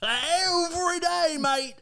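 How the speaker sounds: high, drawn-out Australian-sounding parody of Irish; mock accent. Host mocking co-host's bad accent, botched Irish.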